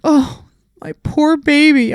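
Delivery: doting owner. Retold or imitated. Owner watching the dog snap, high slow cooing. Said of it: "they're like".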